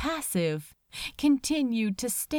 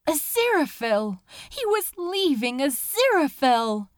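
panicked; 5 semitones higher, 4 dB louder than usual. A narrator's reading. Crowley panics as boat leaves.

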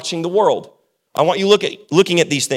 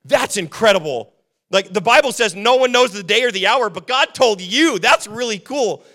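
mock amazement; 4 semitones higher, 4 dB louder than usual. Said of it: "my buddy goes".

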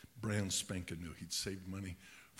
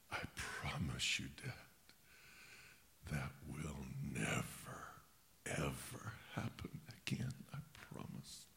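imitated tearful promise; 5 semitones lower than usual. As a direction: act out a sobbing son's vow, voice giving out. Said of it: "he was just sobbing".

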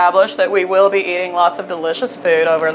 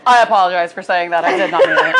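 mock apology; 3 semitones lower, faster than usual. Trey retelling her fake apology, sarcastic. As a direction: apologize with exaggerated fake sincerity. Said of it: "I was like".

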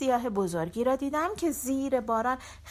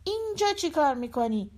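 calling out; 5 semitones higher than usual. Acted. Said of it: "داد زد".

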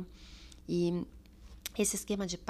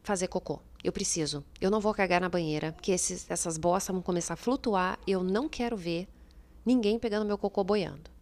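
urgent pleading, louder; retold desperate plea; 3 dB louder than usual. Mother in labour begging staff to leave the tub, urgent louder plea. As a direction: beg them to get you out, insistent. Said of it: "teve uma hora que eu falei assim".

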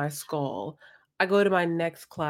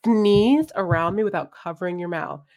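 scolding; 3 semitones higher, 7 dB louder than usual. Retold or imitated. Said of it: "scolding the student".

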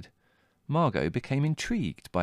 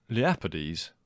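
lower, brother's incredulous query; disbelieving echo; 3 semitones lower, slower than usual. A narrator's reading. Leslie questioning Margot's plan, incredulous. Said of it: "echoed Leslie".

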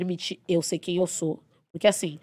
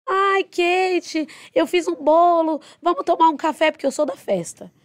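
put-on much higher, cheerful old lady inviting to coffee; sweet old patient; 9 semitones higher, 5 dB louder, slower than usual. Patient inviting Kate for cake and coffee, high and sweet. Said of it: "falou pra mim assim".

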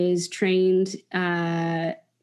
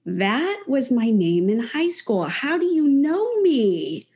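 retold surprise; 5 semitones higher than usual. Husband stunned at being recognized.

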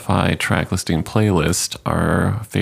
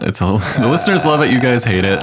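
fast, fried, laughing repeat; vocal fry endings; 3 semitones higher, faster than usual. Real, not acted. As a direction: rush it with a creaky fry. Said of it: "Are you talking in Vocal Fry right now?".

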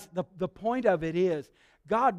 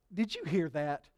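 low, soft aside to a pal; confiding delight; 5 semitones lower, 7 dB quieter than usual. Retold or imitated. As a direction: confide it fondly, keeping it down. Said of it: "he leans over and gives Enoch a, a elbow".

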